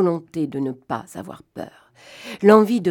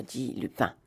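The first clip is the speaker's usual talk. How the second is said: usual speaking voice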